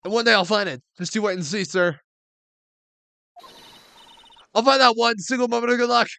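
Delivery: loud, high plucky declaration; unlucky officer swearing she'll bounce back, defiantly; defiant Maggie. Acted. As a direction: vow it like a fighter who never quits.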